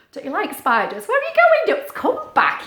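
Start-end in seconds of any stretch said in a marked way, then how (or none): 1.1-2.7 high, loud calling voice; shouting after the ducks. Acted. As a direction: call after them across the field.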